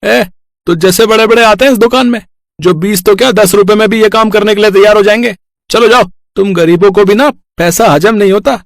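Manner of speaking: fast, dismissive tailor brushing them off; rude tailor. Acted. Tailor to the poor women, fast and scornful. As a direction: snap them away like a stingy shopkeeper.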